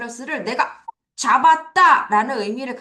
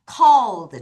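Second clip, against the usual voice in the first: firm, louder "cold"; loud model answer; 3 semitones lower, 4 dB louder than usual. Shown as a demonstration. Teacher urging students to be louder, fairly loud "cold". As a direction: say it up for the class. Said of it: "더 크게 뭐라 그래요?".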